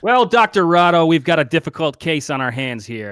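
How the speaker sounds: a touch of a pompous doctor. Acted. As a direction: play the grand physician. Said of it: "He looks and he says".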